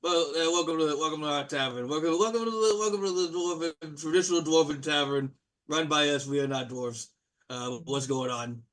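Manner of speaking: brash host welcoming the party, petering out; Blue Blairy. Acted. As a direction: boom the hellos, then trail off awkwardly. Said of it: "He's like".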